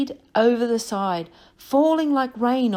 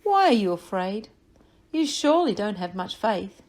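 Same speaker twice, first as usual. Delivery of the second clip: calmly. Acted. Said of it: "Jesus very calmly said to them".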